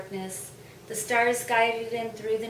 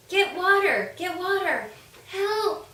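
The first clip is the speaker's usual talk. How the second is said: much higher, loud cries for help; panicked screaming; 8 semitones higher, 5 dB louder than usual. A narrator's reading. Mister Snake screaming to townsfolk about the fire. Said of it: "screamed Mister Snake".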